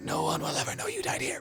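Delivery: loud, spooky, ghostly stage whisper. Repeating the mist's words for a player who missed them, in a loud whisper. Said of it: "I'm whispering okay".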